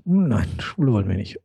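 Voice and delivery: flüsternd. Retold or imitated. Spöttisches Zitat abweisender Dorfbewohner.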